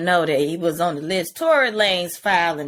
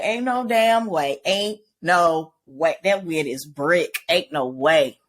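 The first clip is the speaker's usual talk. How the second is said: flat refusal; 3 semitones lower than usual. Retold or imitated. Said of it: "I'd be like".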